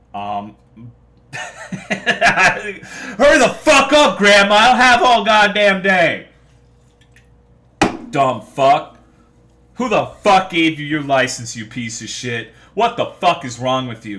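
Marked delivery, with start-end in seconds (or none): 1.4-14.2 loud, shrill, furious yelling. Describing own road rage at drivers slow on green lights, acting out own yelling. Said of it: "I start yelling at them".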